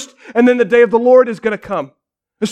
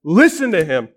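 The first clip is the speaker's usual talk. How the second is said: voice of God; slower than usual. Retold or imitated. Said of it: "The voice says".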